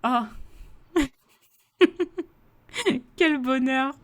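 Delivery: high, gushing cry of joy; delighted exclaim. Retold or imitated. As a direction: gush like you just got great news. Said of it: "Et je me suis dit". (s'extasier, voix aiguë et ravie)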